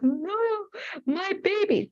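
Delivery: hammed-up mother's sob over her grown son; mock ugly crying. Mom pretending to wail about her son moving out, mock ugly cry. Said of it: "like, ugly crying".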